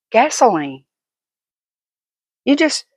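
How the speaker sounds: ordinary delivery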